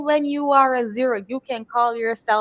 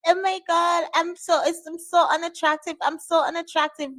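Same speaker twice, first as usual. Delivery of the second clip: mocking whine; 5 semitones higher than usual. Mocking the insecure TikToker.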